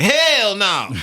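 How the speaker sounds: high, loud hell no through a laugh; giggly high yelp of disbelief. Retold or imitated. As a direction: laugh it out, amazed. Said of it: "He was like".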